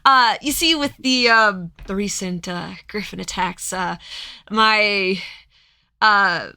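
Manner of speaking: smooth talk a horse deal; merchant. Acted. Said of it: "And he's like".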